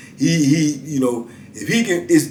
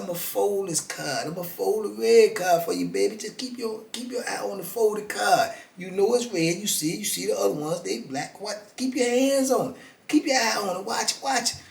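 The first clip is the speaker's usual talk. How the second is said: card hustler patter; 5 semitones higher, 9 dB quieter than usual. Retold or imitated.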